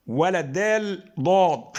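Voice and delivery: ضاد slowed and emphatic, dwelt on; emphatic letter demo; pronunciation demo. Shown as a demonstration. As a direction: stretch ضاد out, heavy and emphatic. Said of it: "خلي بالك ما تجيبش".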